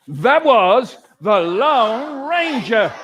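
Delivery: slow, hushed heroic tribute; slow reverent reveal of the hero; awed announcement. Acted. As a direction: drag it out with reverence. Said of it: "the other person says".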